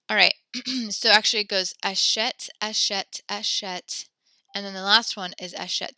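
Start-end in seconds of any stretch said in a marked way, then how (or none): 1.8-4.0 "achète" said "ah-SHET", sounded final t; pronunciation demo. Shown as a demonstration. Teacher shows student how verb forms sound, "achète" as "ah-SHET". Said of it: "do you pronounce achète". 5.5-6.0 "achète" said "ah-SHET", just two syllables; pronunciation demo. Shown as a demonstration. Teacher gives last matching verb form, "achète" as "ah-SHET". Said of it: "They actually all sound the same".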